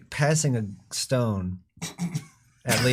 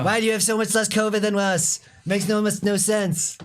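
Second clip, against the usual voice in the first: Trump voice; 6 semitones higher than usual. Retold or imitated. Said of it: "He has Trump's voice".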